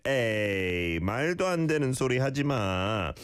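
disbelieving. Acted. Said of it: "when you don't believe someone".

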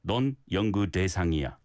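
whole Korean sentence as one unit; one connected phrase. Shown as a demonstration. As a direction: run it together without stressing any word. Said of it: "think of it as one phrase".

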